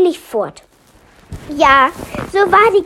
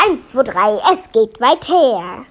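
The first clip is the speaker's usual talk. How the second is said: loud clear spell; 2 semitones higher than usual. A narrator's reading. Melia says the spell again, loud and clear. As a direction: chant it out plainly, word by word. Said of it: "laut und deutlich vorsagte".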